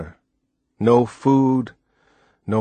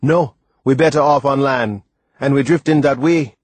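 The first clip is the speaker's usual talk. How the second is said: louder, firm, certain reply; positive; 4 semitones higher, 4 dB louder than usual. Acted. Timothy convinces the boy to head for land, firm and positive. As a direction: state it with full confidence. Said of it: "Timothy said positively".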